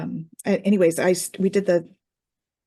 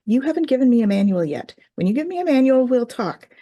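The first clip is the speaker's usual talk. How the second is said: higher-pitched mock ultimatum to the guides; sassy pushback; 6 semitones higher, 4 dB louder than usual. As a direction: act out bargaining back, insistently. Retells pushing back at guides.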